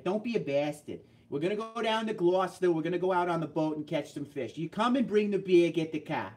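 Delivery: thick Boston accent, rolling the letters over; hammed-up Boston guy planning a boat trip. Shown as a demonstration. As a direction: lay on the Boston, dropping the r's. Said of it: "you get up into Boston".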